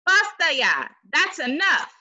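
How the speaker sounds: stern. Acted. Grandma scolding.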